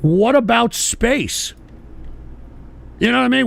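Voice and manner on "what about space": slow drawn-out question; imitating a skeptic. Host voicing viewers who challenge him, slow mock question. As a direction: drag the question out like a doubter. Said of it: "people are gonna say".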